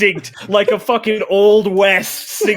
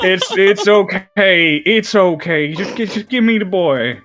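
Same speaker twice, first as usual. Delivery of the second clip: 1 soothing reassurance. Acted. Doc soothes the crying kid.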